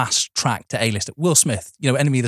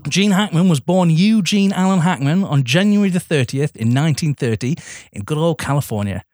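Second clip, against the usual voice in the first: sniffly. Real, not acted. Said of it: "Oh, sorry, I'm sniffly".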